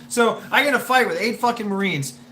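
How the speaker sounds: laughing while telling; chuckling through the line. Real, not acted. Laughing at his own story.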